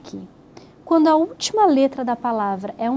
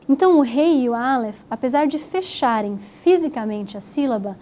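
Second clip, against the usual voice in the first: ordinary talk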